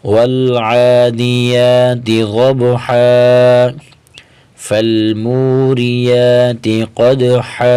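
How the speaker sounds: slow, measured recitation of the verses; Quran recitation. Shown as a demonstration. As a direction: recite fluently, letting each verse ring out. (روانی سے قرآن کی تلاوت)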